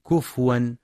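"كفوا" as kufwan, no vowel after fa; vowelless fa. Shown as a demonstration. Teacher showing what to avoid, "كفوا" as kufwan. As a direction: close the fa straight onto waw in "كفوا". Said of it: "فلا يقرأ بسكون الفاء".

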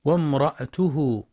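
وامرأته as "wamra'tuhu", no vowel after the hamza; وامرأته with hamza closing the ra syllable; mistaken silent-vowel hamza. Shown as a demonstration. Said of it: "يقرأ بسكون الهمزة بعد الراء".

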